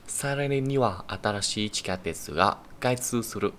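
slow model sentence reading; reading example sentence. Shown as a demonstration. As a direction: read it slowly for learners. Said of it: "reads example sentence aloud".

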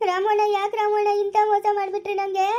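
high, wailing reproach; hurt, pleading lament; tearful. Acted. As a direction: whine it as if crying. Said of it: "ಅಳ್ತಾ ಇದ್ಯಾ ಸ್ನೇಹ".

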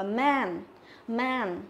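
"man" with a wide, open æ; teacher's model "man" with flat æ; flat, spread E. Shown as a demonstration. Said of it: "đọc bẹt cái miệng ra".

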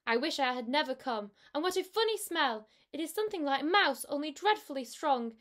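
a worried little cat voice; kitten voice. Acted. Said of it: "said Tom Kitten".

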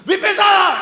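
very high, loud yell. Retold or imitated. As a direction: scream it at the woman on the crossing. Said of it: "krzyczę do niej". (krzyk do kobiety na pasach)

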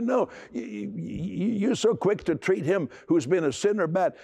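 high, stammering indignant protest; indignant brother. Acted. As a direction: sputter it out, offended. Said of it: "how the older brother felt".

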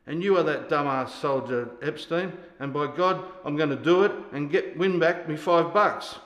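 loud, emphatic sergeant's declaration; forceful vow. Acted. Sergeant swears to remake his soldier, loud and determined. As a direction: build in force to the final words.

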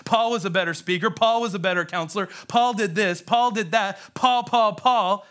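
nagging list, building in pitch; mock griping that climbs toward the end; critics' complaint. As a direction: pile up the comparisons, rising as you go. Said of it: "he would still hear this".

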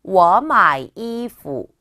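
워 마이 이푸 very slow and loud, each tone drawn out; model reading. Shown as a demonstration. Teacher reads the sentence for learners, slow exaggerated tones. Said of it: "마지막 한 번".

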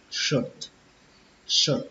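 "shirt" closing on a light puffed T; soft "shirt", T lightly released; half-released final T. Shown as a demonstration. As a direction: finish "shirt" with a small breath of T. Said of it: "Kết thúc bằng âm t bán hơi".

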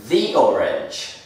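"the" with a long ee before orange; "the" as "thee". Shown as a demonstration. Teacher showing the article before a vowel, "the" as "thee". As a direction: slowly say "the" as "thee". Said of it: "la perfecta pronunciación sería the".

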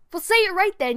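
loud, high mock scolding; hammed-up angry shout; mock yell. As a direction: yell at yourself like a fed-up director. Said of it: "Stop yelling at me".

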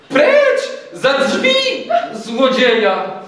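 very high, loud outcry; indignant high-pitched shout; shouted command. A narrator's reading. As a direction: yell to throw out a thief. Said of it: "krzyknął".

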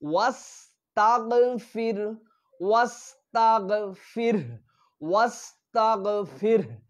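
slow chanted ওয়াস্তাগফির; tajweed recitation. Shown as a demonstration. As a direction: recite ওয়াস্তাগফির slowly with a chest হা. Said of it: "শেষের হাটা বুক থেকে আসতেছে".

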